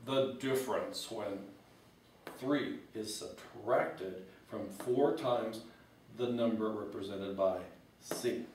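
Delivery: slow, deliberate math-speak reading; lightly voiced fussy mathematician droning the problem; mock mathematician. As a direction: read it like a stuffy professor. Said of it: "in, in math talk, if you were a mathematician".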